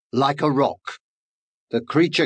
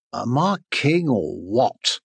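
slow, lightly purring lion; smug purr; 3 semitones lower than usual. Acted. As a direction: savour it like a full, smug lion. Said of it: "Lion purred".

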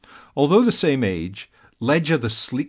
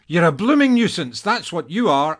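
scowling; 7 semitones higher, 3 dB louder than usual. A narrator's reading. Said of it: "Annabelle scowled".

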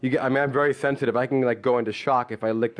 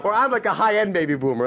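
laughing; 6 semitones higher than usual. Real, not acted. To the audience, restating his label with a laugh. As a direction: break into laughter as you say it.

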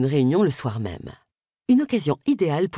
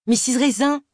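gushing Miss Sims; 8 semitones higher than usual. Acted. Miss Sims greets Agatha gushingly.

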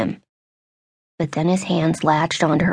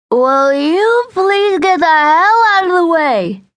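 much higher, louder, slow irritated bark; a boorish man losing patience; irritated drunk man; 11 semitones higher, 5 dB louder, slower than usual. Acted. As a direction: drunk boyfriend yells at the mother to move. Drunk man snaps at blocking woman.

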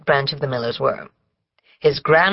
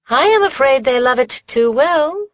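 gloomy; 8 semitones higher than usual. A narrator's reading. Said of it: "said Susan gloomily".

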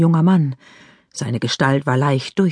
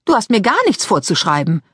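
put-on a touch of teenage defiance; slightly defiant; 4 semitones higher than usual. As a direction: push back, but gently. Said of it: "erwiderte sie leicht trotzig".

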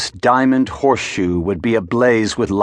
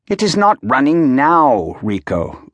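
glum; 5 semitones higher than usual. A narrator's reading. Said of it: "Ugo said glumly".

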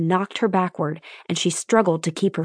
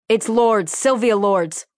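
raised, carrying call; yell; 4 semitones higher, 4 dB louder, slower than usual. Acted. Foreman yelling the escapee's name to the lieutenant. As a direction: call the name across the yard. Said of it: "Russell yell to Lieutenant Lopez".

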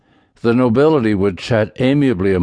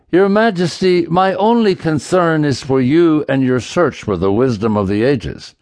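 put-on higher, raised voice of a pompous old duke; 4 semitones higher than usual. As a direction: puff up like a self-important noble. Duke pleads his case.

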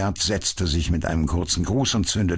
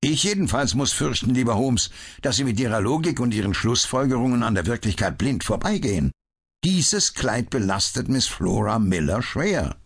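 lightly voiced bitter inspector; 7 semitones higher than usual. A narrator's reading. Lestrade lecturing Holmes about reality, mildly bitter. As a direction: push back at him with resentment.

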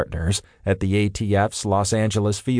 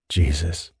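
grumbled; 4 semitones lower than usual. A narrator's reading. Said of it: "Thane grumbled".

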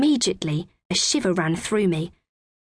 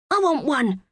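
cried out; 7 semitones higher than usual. A narrator's reading. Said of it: "cried Harry".

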